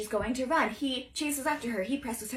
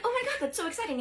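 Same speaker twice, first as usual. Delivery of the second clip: much higher excited gush; thrilled squeal; 10 semitones higher, faster than usual. Retold or imitated. Anastasia hearing about the New York trip, higher excited gush. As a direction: squeal with delight at the news.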